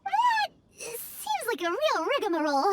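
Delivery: slow, drawn-out whine; whiny complaint. Acted. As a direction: moan about the tedious ritual. Paimon whines at long ritual.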